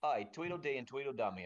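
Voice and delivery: deep, loud mocking taunt; mocking character voice. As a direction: jeer at the guards low and rough. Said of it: "I say".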